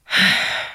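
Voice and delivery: weary exhaled sigh; heavy sigh. Retold or imitated. Bachelor confessing to camera, heavy sigh. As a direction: let out a long breath before confessing. Acting his talking-head confession.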